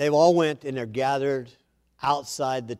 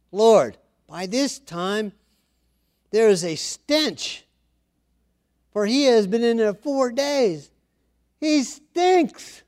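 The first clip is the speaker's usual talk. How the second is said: mock Martha; 8 semitones higher, 4 dB louder, slower than usual. Martha protests at the tomb.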